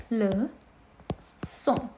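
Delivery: "Leçon" split as le, long pause, son; teacher's broken-down "Leçon"; syllable by syllable. Shown as a demonstration. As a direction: sound out "Leçon" in two separate parts. Teacher breaks word into syllables.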